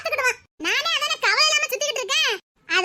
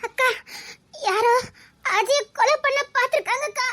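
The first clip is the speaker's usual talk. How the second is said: halting, tearful disclosure; crying; 2 semitones higher than usual. Acted. Girl tells sister of a murder attempt, crying. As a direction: break the news between sobs. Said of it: "ஏன் அழுதுகிட்டு வாரா?".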